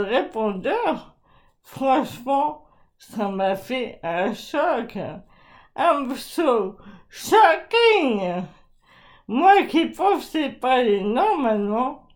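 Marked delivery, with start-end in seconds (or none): 5.8-8.4 slow mock voice. Mock reaction, slow odd voice.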